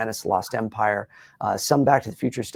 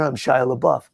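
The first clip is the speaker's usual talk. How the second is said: Shia LaBeouf voice; 4 dB louder than usual. Shown as a demonstration. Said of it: "If I come down here".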